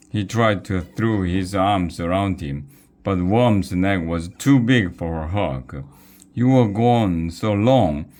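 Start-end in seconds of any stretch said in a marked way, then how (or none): 6.3-8.1 higher-pitched worried outburst; worried cry. A narrator's reading. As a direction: cry out with pent-up worry. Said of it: "cried Wiglaf".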